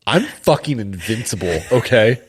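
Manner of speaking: loud, brash bravado; defiant. Retold or imitated. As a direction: puff up, mock-invincible. Mock defiant voicing of friend.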